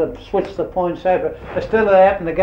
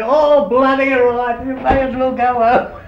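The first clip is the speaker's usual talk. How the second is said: higher, slower grudging give-in; grudging boss; 8 semitones higher, 6 dB louder, slower than usual. Retold or imitated. McKinnon finally letting the boys go home, slow and higher. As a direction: let the boss cave in reluctantly.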